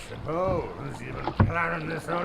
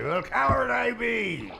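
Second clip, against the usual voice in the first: frightened outburst; 4 semitones higher than usual. Acted. Boatman refusing to die, panicked cry. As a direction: blurt it out scared.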